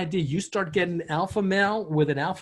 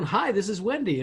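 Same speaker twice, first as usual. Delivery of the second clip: a hint of a chirpy higher-pitched phone greeting; sister-in-law answering; 5 semitones higher than usual. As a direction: lightly imitate a sister-in-law picking up. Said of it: "my sister-in-law always answers the phone".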